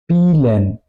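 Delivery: "Spielen" opened with sh before the P; SP as SHP. Shown as a demonstration. Teacher repeating the example for students, "Spielen" as shpielen. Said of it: "suena como S C H P".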